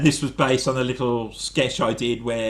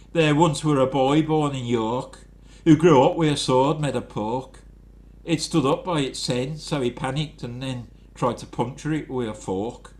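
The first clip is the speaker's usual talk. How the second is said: put-on the best Yorkshire accent he can do. Limerick voiced as Simon Armitage in a light Yorkshire accent. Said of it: "obviously done in a Yorkshire accent".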